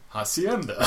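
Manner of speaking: "hacienda" drawn out, hammed-up Spanish; odd Spanish pronunciation. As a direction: say "hacienda" slowly with a mock Spanish flourish. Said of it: "like, the odd pronunciation".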